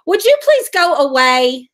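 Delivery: annoyed at troll. Real, not acted. Scolding a chat troll.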